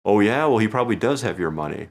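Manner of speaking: retold heckle. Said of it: "he yells out".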